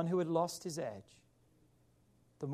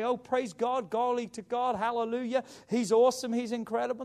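lightly mocking churchy praise, higher pitched; 5 semitones higher, 3 dB louder than usual. Preacher mimics churchgoers who won't admit a struggle, mock praise. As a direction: rattle off put-on hallelujahs.

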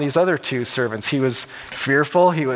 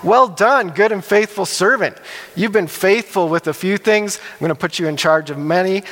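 pleased master; 3 semitones higher than usual. Acted. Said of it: "the master's really excited for him".

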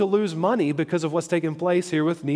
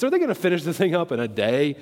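quick, lightly mocking question; faster than usual. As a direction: toss it out as a mild taunt. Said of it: "saying that with a mocking voice".

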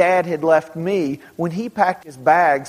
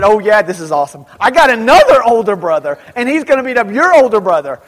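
fast, loud, high and gleeful; a kid's smug schoolyard brag; gleeful kid boast; 4 semitones higher, 7 dB louder, faster than usual. Retold or imitated. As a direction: top his threat with glee. Kid trading threats at recess.

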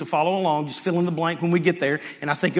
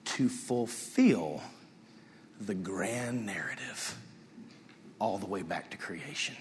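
solemn rebuke; 4 semitones lower, 5 dB quieter, slower than usual. Acted. Jesus rebukes Peter, voiced.

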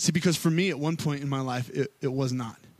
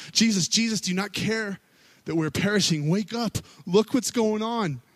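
higher, urgent call to wake him; frantic plea; 5 semitones higher than usual. Retold or imitated. Disciples waking Jesus in the storm, frantic and higher. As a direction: shake him awake in a panic. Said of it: "and they're frantic".

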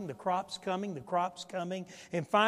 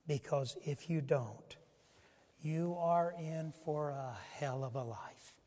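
gentle; 3 semitones lower, 3 dB quieter than usual. Acted. God voiced speaking gently to Hagar.

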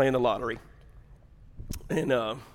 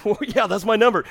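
raised, louder thrilled reaction; excited lottery player; 7 semitones higher, 5 dB louder than usual. Acted. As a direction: act out spotting a winning number. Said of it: "you get excited".

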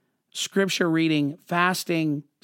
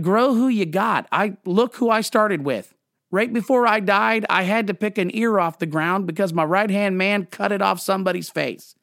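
God's retort; 2 semitones higher than usual. Pretend. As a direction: set them straight like a wry God. God's reply to pastors.

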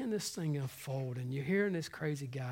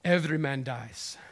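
put-on Scottish accent; 2 semitones lower than usual. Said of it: "I know it's a horrible accent".

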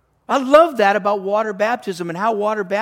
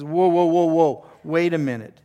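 louder, halting interruption; mock interjection; 4 dB louder than usual. Paul steps up to stop the dividing, loud objection. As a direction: break in loudly to stop them.

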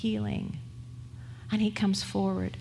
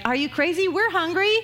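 exasperated pushback; 4 semitones higher than usual. Retold or imitated. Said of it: "There's a lot more pushback there".

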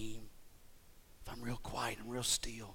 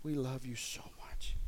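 whispered prayer. Real, not acted. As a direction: drop the last repeat to a whisper. Repeated prayer line whispered.

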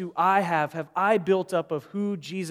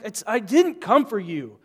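mild frustration; 3 semitones higher, 5 dB louder than usual. Retold or imitated. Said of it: "He's frustrated".

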